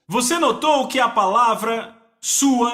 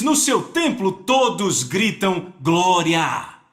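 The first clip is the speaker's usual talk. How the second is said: deliberate reading; 4 semitones lower, slower than usual. Acted. Preacher rereads verse with weight.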